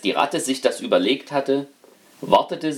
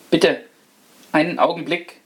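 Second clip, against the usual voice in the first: the rat begs the man not to throw the fork; rat's plea; 5 semitones higher than usual. Acted. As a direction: stop him with a plea. Rat pleads quickly.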